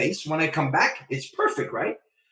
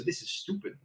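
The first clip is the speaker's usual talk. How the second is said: mock-whispered complaint under the breath; muttered to himself in a whisper; whispered grumble; 12 dB quieter than usual. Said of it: "now you can hear me say".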